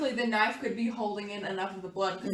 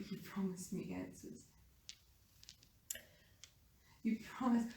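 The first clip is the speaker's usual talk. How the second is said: very soft, weakened call; faint, halting accusation from the dying; raspy, quiet dying plea; 10 dB quieter than usual. Acted. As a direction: rasp it quietly, as if losing blood. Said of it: "probably pretty raspily, as I'm losing blood".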